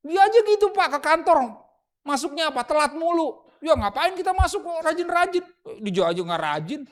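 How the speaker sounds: high, loud, whining excuse; mimicking a lazy worker. Preacher mimics a lazy office worker, loud high whining excuse. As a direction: whine that everyone else is late too.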